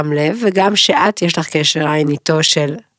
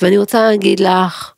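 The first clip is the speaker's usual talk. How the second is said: a hint of a slow empowering talk, long gaps between words; mock her slow soothing segment voice; imitating slow calm voice; 2 semitones higher than usual. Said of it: "ויש לך קול כזה שקט, ועם יותר משנייה בין מילה למילה". (חיקוי קל של קול איטי ומעצים עם הפסקות בין המילים)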